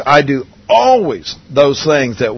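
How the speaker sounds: slow line with weight on "always"; stress on always. Real, not acted. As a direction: lean firmly on "always", unhurried. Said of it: "Underline that word always".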